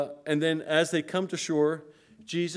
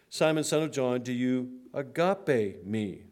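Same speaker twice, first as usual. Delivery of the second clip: "agape" drawn out slowly with weight; "agape" spoken slow, as the noble love; stressing agape. Shown as a demonstration. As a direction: dwell on "agape", unhurried and solemn. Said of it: "This noble, sacrificial, unconditional love".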